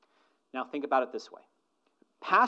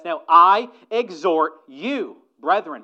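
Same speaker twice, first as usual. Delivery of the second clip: exhort; 3 semitones higher, 14 dB louder, slower than usual. Acted. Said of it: "he says".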